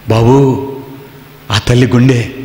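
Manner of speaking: mild tragic tone, drawn out; a hint of a grieving mother's heart. Shown as a demonstration. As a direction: tell it as a touch of tragedy. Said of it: "కొంచెం ట్రాజడీగా".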